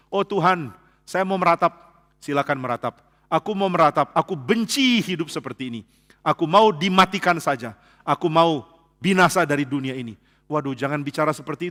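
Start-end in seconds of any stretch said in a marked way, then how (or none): 0.1-10.2 a mock wailing prayer to God; hammed-up lament, half in jest; careless lament. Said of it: "meratap dengan ngawur". (ratapan asal-asalan yang dibuat-buat)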